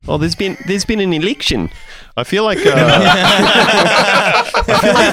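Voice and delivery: mock Aussie accent. Keeps the put-on Aussie voice.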